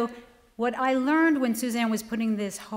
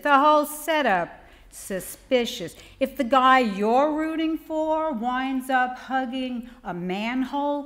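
rhythmic list-poem recital, each item lifted; poetry reading. Acted. Poet reads a noir checklist to a laughing audience, rhythmic poetry reading.

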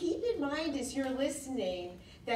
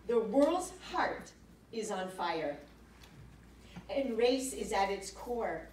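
solemn reading. Acted. Host reading Ruth King's words to the audience, solemn reading. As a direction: read it out phrase by phrase, deliberately. Reads a book passage aloud.

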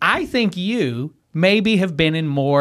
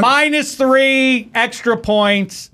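slow announcer read; 7 semitones higher, much slower than usual. Pretend. Shaq plug, slow and drawn.

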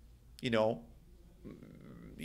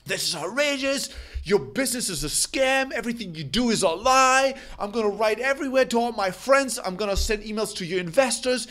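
higher, heated rant of a furious customer; angry caller; 6 semitones higher than usual. Retold or imitated. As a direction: rage at him down the phone like an outraged client. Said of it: "they go".

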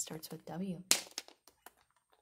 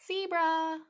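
excited reveal; 10 semitones higher, 7 dB louder than usual. Acted. High, loud reveal of the zebra.

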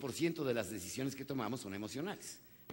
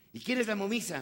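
puzzled question; 8 semitones higher, 4 dB louder than usual. Retold or imitated. Father questioning son about match.

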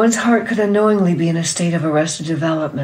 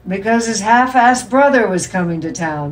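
delighted dad; 4 semitones higher, 6 dB louder than usual. A narrator's reading. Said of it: "said her dad, delighted at himself".

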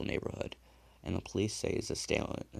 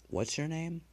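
startled question; 10 semitones higher than usual. A narrator's reading. Killer hears the dead man's name, startled. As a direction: pitch jumps up in shock.

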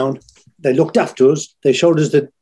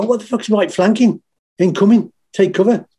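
raised mock military shout; mates mimicking sleep-shouting; 6 semitones higher than usual. Fire crew mates mocking his sleep-talking, mock shout. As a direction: ham up a soldier yelling orders in his sleep. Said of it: "And they go".

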